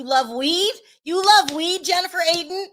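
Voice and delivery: playful disbelief. Real, not acted. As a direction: ask again, climbing in pitch and astonishment. Mock shock at celebrity's weed remark.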